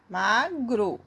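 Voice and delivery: MAGRO in two beats, MA then GRO; split into syllables. Shown as a demonstration. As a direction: break MAGRO at the syllable boundary. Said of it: "Primeiro você separa a sílaba". (MAGRO separado em duas sílabas)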